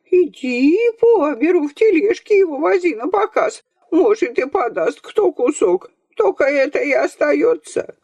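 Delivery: grandmother ranting. A narrator's reading. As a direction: pour out her grievance, near tears. Grandmother's tirade continues.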